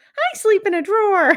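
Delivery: very high, loud, squeaky voice. Noticing the Gary voice has turned into Ralph Wiggum: Ralph Wiggum voice. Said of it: "That's Ralph Wiggum".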